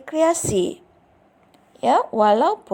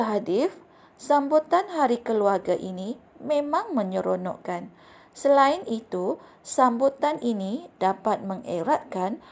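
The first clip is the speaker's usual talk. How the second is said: expressive reading aloud. Shown as a demonstration. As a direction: read the story to the class with clear pronunciation and fitting intonation. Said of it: "kamu perlu mendengar cikgu membaca petikan ini". (bacaan contoh yang ekspresif dengan intonasi sesuai)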